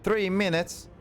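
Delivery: surprised. Real, not acted. Reacts to the timer.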